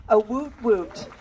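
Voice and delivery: loud cheer call to the crowd; rally the room, call it out loud. Real, not acted. Grieving mom rallies crowd to cheer Kelly, loud call.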